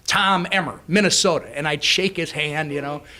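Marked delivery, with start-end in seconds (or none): 0.1-1.5 punchy, emphatic re-introduction of oneself; insistent self-introduction. Retold or imitated. New member walking right up to the Speaker, insistent introduction. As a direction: announce the name and state, louder. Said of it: "walk right up to him and go".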